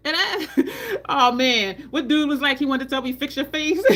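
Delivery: high, loud, cracking up; laughing while talking. Real, not acted. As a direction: tell it through real laughter. Cracks up telling the anecdote.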